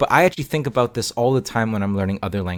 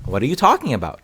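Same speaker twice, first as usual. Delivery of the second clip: puzzled listener; 5 semitones higher, faster than usual. Acted. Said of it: "The other person might go".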